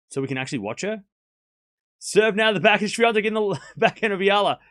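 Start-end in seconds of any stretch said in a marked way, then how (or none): 2.0-4.6 higher and louder with every shot; excited play-by-play building to a shout. Acted. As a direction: call the winner like a commentator going wild.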